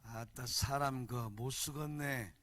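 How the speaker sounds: low, drawn-out Jeolla accent with weight; 전라도 사투리. Shown as a demonstration. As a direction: stretch each word in soulful Jeolla dialect. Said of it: "전라도 말 다시 알려드릴게요". (낮고 느린 영혼 있는 전라도 억양)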